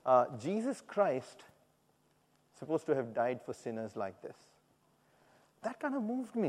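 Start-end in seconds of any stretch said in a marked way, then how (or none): 0.4-4.4 understated sarcasm with a long pause; sarcastic. Retold or imitated. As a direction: draw out the name, then drop away quietly. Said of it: "almost in a sarcastic way".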